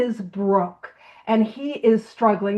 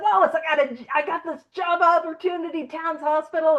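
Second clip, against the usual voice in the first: higher, excited retold announcement; all excited; 5 semitones higher than usual. Bill tells Lois about the job, all excited. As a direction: imitate someone bursting with good news. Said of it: "he's all excited".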